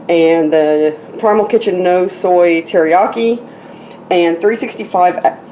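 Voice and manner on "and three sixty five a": talking through hiccups; words cut by a hiccup. Real, not acted. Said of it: "I got the hiccups".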